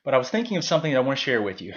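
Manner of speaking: panting between exercise sets; breathless after a workout; out of breath. Real, not acted. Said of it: "so I'm really out of breath".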